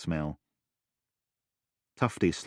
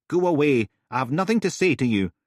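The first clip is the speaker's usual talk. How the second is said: dismissive; 9 semitones higher, 7 dB louder, faster than usual. Acted. Resident refuses.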